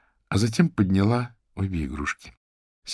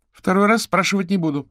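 higher, louder cold ultimatum; cutting threat; 13 semitones higher, 6 dB louder than usual. A narrator's reading. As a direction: snap it as a final warning. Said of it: "отрезала та". (резкая угроза, громче и выше)

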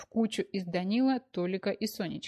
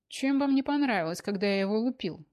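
angry outburst; 3 semitones higher, 5 dB louder than usual. Acted. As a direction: blurt it out, fed up. Danil loses patience, outburst.

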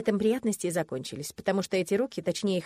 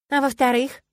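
gloomy; 5 semitones higher, 8 dB louder than usual. A narrator's reading. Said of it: "мрачно спросила я".

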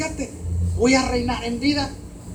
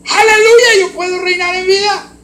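jubilant shout; 7 semitones higher, 10 dB louder than usual. Real, not acted. Preaching climax, shouting praise.

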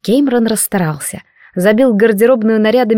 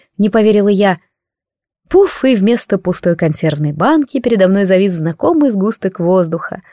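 usual speaking voice

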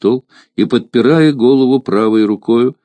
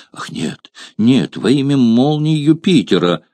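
mock-horrified exclamation, a touch higher; feigned horror; 5 semitones higher than usual. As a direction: pretend to be terrified. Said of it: "с притворным ужасом восклицала". (наигранный ужас, лёгкое восклицание)

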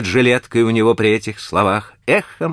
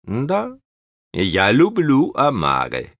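mumbled; 6 semitones higher, slower than usual. A narrator's reading. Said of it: "пробормотал Кейстер".

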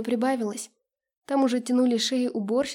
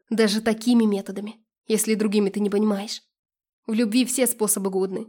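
louder, forceful quarrel voice; heated accusation; 5 dB louder than usual. Acted. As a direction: argue hard, pressing the point home. Acted quarrel, ex justifies himself. (запальчиво, громко, с обидой и напором)

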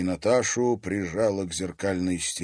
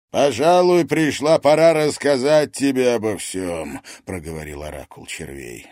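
oracle of worms; 3 semitones higher, 6 dB louder than usual. Acted. Oracle justifying himself to his daughter, weighty and cold. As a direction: speak as a cold, unrepentant father.

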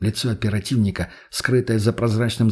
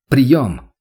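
calling out; 2 semitones higher, 6 dB louder than usual. Acted. Calling over radio.

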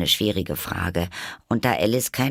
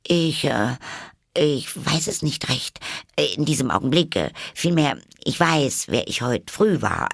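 high, hesitant little voice; self-conscious Alice; 6 semitones higher than usual. A narrator's reading. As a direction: stumble shyly through a higher voice. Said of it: "Alice antwortete etwas befangen". (befangene, höhere Stimme mit Zögern)

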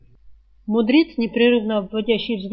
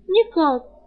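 bewildered; 6 semitones higher than usual. A narrator's reading. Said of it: "растерянно возразила Рыска".

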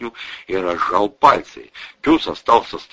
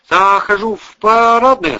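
put-on high, loud excited voice of a young army man; breathless, eager greeting; 8 dB louder than usual. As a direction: burst in with the news, pitched up. Army man bursts in with news.

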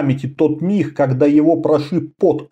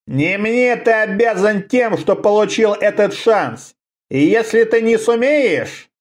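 hoarse rattling voice; 6 semitones higher than usual. Acted. Homunculus master threatens.

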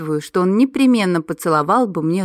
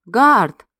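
a sharp, louder warning call of the name; stern, threatening; 3 semitones higher, 5 dB louder than usual. A narrator's reading. Heroine sternly warns the guardian dog, louder and threatening. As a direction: scold him with his name. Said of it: "грозно нахмурилась я".

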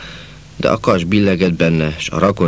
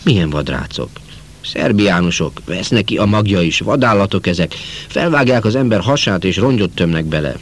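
put-on booming, higher old uncle; loud voice; 4 semitones higher than usual. Uncle Tamás greets Péter with gossip, loudly. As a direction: announce the news big and loud. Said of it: "nagy hangon fogadott".

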